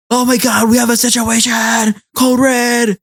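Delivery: high-pitched mock panic; flustered. Flustered sister raising the alarm at home, high panicked cry. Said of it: "comes home all, like, flustered".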